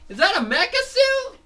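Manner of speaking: very high, loud disbelief; squeaky cartoon wonder; amazed question. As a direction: gasp out the question.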